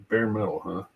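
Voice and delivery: ordinary delivery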